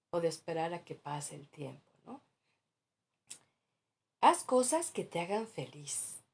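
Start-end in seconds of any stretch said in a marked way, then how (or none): 4.2-6.2 "Haz cosas que te hagan feliz" más fuerte y animado; consejo cliché. Retold or imitated. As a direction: imita un consejo superficial. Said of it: "nada que ver una cosa con la otra". (ligera imitación alegre y fuerte)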